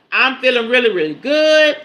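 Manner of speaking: lifted, ringing "good"; joyful burst. Real, not acted. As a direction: shout "I'm feeling really, really good" with real joy. Repeats joy, second take bursting.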